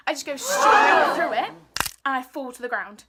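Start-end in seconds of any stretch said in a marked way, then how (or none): 0.1-1.5 loud laugh through the words, a bit slow; laughing loudly. Real, not acted. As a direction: laugh out the words as you tell the fall. Laughing while telling a fall.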